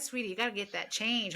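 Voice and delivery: light mock Texan accent; mildly imitated Texan accent; imitating Texan accent. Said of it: "Texan accent".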